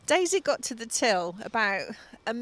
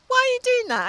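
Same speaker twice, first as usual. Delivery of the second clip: much higher, indignant half-shout at the cashier; nuclear outburst; 14 semitones higher, 4 dB louder, faster than usual. Retold or imitated. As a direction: fling the question at her in outrage. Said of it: "I went nuclear in about four seconds".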